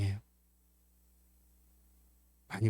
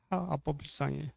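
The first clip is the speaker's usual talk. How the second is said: much softer retold murmur; tearful pity; 9 dB quieter than usual. Teary-eyed son hugs Dad, softly pitying. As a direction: quietly imitate a moved child.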